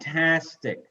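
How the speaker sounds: "Fantastic" with TAS standing out; stress on second syllable. Shown as a demonstration. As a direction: lean on the middle syllable of "Fantastic". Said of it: "the second one is stress".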